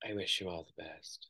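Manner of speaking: very soft, true half-whisper under the breath. Retelling what was half-whispered after the verdict: imitating a half-whisper. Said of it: "She whispered to him".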